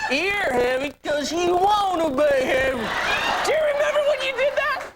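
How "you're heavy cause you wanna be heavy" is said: slow, lightly imitated blunt counselor; mock a scolding TV counselor, slowly; a hint of stern drawn-out lecturing; Doctor Phil. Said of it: "You're like".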